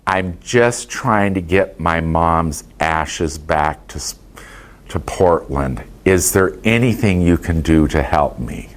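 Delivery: slow, low, understated guilt-trip; Catholic guilt. Retold or imitated. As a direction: lightly imitate a meek plea meant to induce guilt. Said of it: "what I call Catholic guilt".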